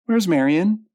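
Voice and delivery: high, loud worried question; calling out. A narrator's reading. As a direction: call it out to the whole room. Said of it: "called Louise".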